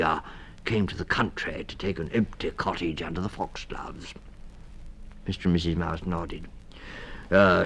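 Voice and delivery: put-on stammering old toad voice, kind; a dithering, kindly toad; kindly Mister Toad.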